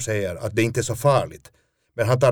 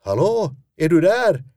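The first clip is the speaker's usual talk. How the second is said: much higher calling voice down a phone line; producer calling out; 11 semitones higher, 5 dB louder than usual. Retold or imitated. Producer calls out to the silent actor, high and loud. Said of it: "ropar hon".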